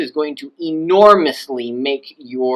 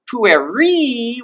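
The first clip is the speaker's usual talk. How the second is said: much higher, held on the ending; high pitch; 9 semitones higher than usual. Shown as a demonstration. Teacher showing the word is possession, high pitch. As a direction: lift it high and stretch the last syllable. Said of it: "with its high pitch".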